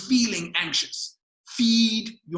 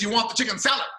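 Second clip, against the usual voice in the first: raised Aussie checking the order; broad Australian accent; 4 semitones higher, 4 dB louder, faster than usual. Retold or imitated. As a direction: imitate an Australian waiter confirming. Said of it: "he spoke with a very broad Australian accent".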